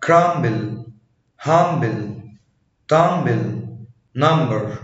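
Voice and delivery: "crumble", "humble", "tumble" with a clear b after the m; sounded B after M. Shown as a demonstration. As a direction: say number with both M and B sounded. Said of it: "مرة تانية".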